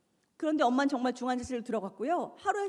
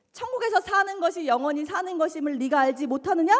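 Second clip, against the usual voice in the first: loud, raised solemn pronouncement; God; 5 semitones higher, 6 dB louder than usual. Retold or imitated. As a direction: proclaim it as a divine challenge. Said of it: "음성 한마디를 들어요". (하나님의 음성처럼 크고 높게 선포)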